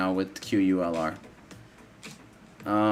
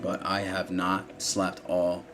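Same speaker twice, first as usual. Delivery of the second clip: yawning; 4 semitones lower, 4 dB quieter than usual. Real, not acted. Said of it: "I'm sorry I'm yawning".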